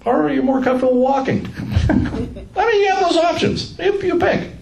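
high, laughing through the words; chuckling as the joke lands. Real, not acted. Teacher teasing the class about walking, laughing.

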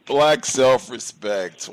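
drawn-out emphatic Black self-respect; slow emphatic phrase. Real, not acted. Host savours the caller's phrase.

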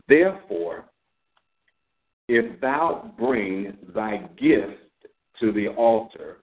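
slow, measured reading of the verses; scripture reading. Acted. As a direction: read each phrase slowly, as holy text. Reads scripture aloud.

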